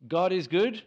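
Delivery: raises voice high and loud to the room; loud call-out. Real, not acted. Preacher calling to the congregation, loud proclaiming call. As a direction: proclaim it like a rallying cry.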